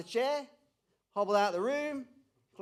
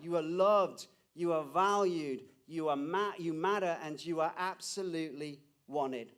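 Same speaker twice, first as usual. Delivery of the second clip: mild proclaiming call; 4 semitones lower than usual. Retold or imitated. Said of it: "that screams out".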